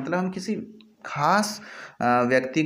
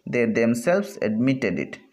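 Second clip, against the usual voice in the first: slow, deliberate, leaning on themselves; slow classroom demo of the emphatic themselves; stress on themselves; 3 semitones lower, much slower than usual. Shown as a demonstration. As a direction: spell out "they themselves admitted it" slowly with weight on themselves. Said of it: "थोड़ा जोर दे के बोला गया है".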